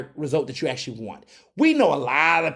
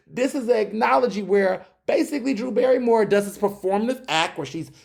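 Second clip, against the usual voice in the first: ordinary talk, nothing marked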